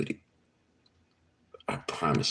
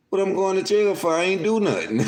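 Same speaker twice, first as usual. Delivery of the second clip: much higher, incredulous and laughing through it; high imitated protest through laughter; confused Lil Tootie; 3 dB louder than usual. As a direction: squeak it out like a baffled kid.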